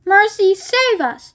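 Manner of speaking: high, slow panicked plea; yelled. A narrator's reading. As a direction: cry out to heaven in fright. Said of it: "yelled Missus Beauregard".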